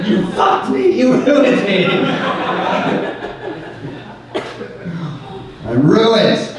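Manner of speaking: hammed-up wounded whine, laughing; mock despair. Comic mock-accusing his laughing sister. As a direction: play the betrayed victim for laughs.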